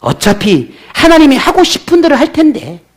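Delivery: a sulking prophet giving God an ultimatum; Jonah's defiant speech. Retold or imitated. 설교자가 요나를 대신해 하나님께 대들며, 약간 높인 원망조로. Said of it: "오만한 태도가 이 속에 감춰져 있다".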